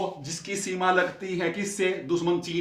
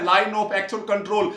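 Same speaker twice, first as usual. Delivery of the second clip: line of actual control said very slowly, word by word; slow spelled-out term; 3 dB louder, much slower than usual. Shown as a demonstration. Teacher repeats the term slowly for the class. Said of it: "बार बार बोल रहा हूं मैं".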